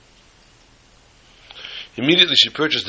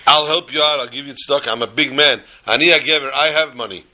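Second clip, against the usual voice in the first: boastful giver; 2 semitones higher than usual. Retold or imitated. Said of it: "a person should not say".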